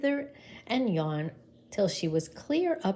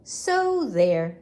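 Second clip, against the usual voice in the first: smug; 6 dB louder than usual. Acted. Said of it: "then she added".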